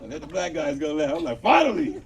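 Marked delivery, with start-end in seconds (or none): 1.4-2.0 higher, exclaimed cheer; mock-jubilant outburst; triumphant relief. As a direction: burst out as if long overdue. Acted relief at finally going last.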